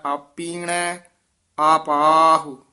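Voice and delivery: ਆਪੀਣੈ said tight, drawn slowly into ਆਪਾਹੋ; tightly joined. Shown as a demonstration. Teacher showing a tight recitation, joined words. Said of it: "ਥੋੜਾ ਜਿਹਾ ਕੱਸ ਕੇ ਬੋਲਣਾ ਹੈ".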